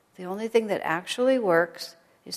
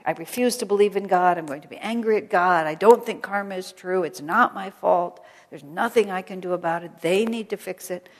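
defiant protest; 7 dB louder than usual. Retold or imitated. Voicing a defiant person.

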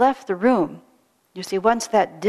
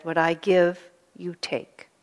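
stern master; slower than usual. Retold or imitated. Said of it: "like that".

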